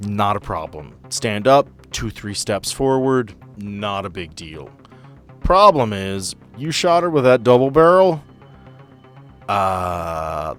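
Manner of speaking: ordinary talk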